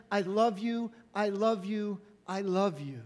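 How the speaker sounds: I love you said warmly and steadily, not fading; God's I love you, open and embracing; tender repeated love. Acted. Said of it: "whisper to you over and over".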